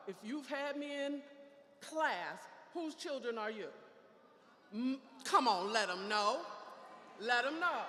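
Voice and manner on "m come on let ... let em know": calling out. Real, not acted. Calls audience to answer.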